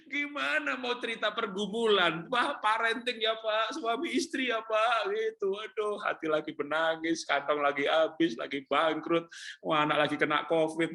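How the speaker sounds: high-pitched mock wail; comic lament. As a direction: lament your troubles for laughs. Comic complaint about his own troubles.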